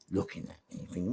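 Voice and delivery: ordinary talk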